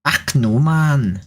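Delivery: a light put-on Scottish accent; a playful hint of Scottish. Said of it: "I'm going all Scottish".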